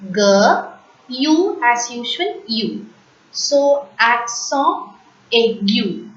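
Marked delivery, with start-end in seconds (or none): 0.1-0.6 "G" as a hard "guh", louder; sounded-out letter. Shown as a demonstration. Teacher breaks down aigu, hard "G" sound. 4.0-6.1 "accent aigu" slowly, ak-SON ay-GYU; French pronunciation. Shown as a demonstration. Teacher sums up the French name, slow French "accent aigu". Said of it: "in French".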